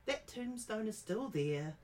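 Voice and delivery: put-on high, slow old-lady voice; grandmother scolding. Grandmother reassuring grandchild the tombstone stands, high and slow. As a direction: set the child straight, granny style. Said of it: "she scolds you".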